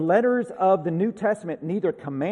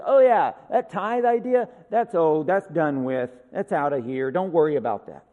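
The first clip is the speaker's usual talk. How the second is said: mock dismissive; 5 dB louder than usual.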